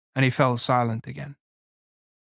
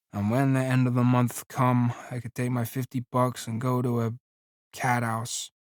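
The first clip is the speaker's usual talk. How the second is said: soft, flat monotone; wooden monotone; 5 dB quieter than usual. Acted. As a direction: recite it with no emphasis. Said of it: "He said woodenly".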